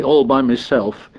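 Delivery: high-pitched, aggrieved protest; indignant, pitch thrown up; indignant cry. A narrator's reading. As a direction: protest like a wronged boy. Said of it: "cried Piggy indignantly".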